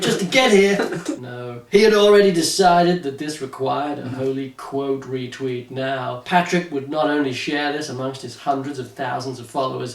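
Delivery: mock-serious thriller narration; dramatic story narration. A narrator's reading. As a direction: read it like a gripping audiobook, tongue in cheek. Reads parody thriller novel aloud.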